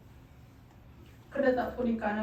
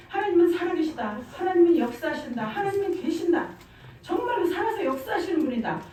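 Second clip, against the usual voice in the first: louder, higher, ringing declaration of faith; fervent proclamation; 4 semitones higher, 3 dB louder than usual. Retold or imitated. Telling the sister who evangelized her that God lives, fervent and loud. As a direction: announce it like good news you can't hold in.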